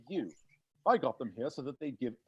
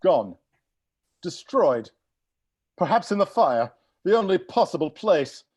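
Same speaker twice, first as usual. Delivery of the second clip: louder, emphatic; 3 semitones higher, 9 dB louder than usual. Acted. Dramatic reveal.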